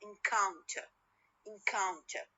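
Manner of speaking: encounter with the stress on coun; stress on the middle syllable. Shown as a demonstration. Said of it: "when I say encounter".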